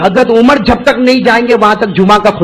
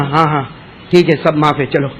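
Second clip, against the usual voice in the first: curt dismissive; 7 semitones lower, 5 dB quieter than usual. Acted. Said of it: "آدمی غصے میں ہوتا ہے نا تو ایسا ہی بولتا ہے".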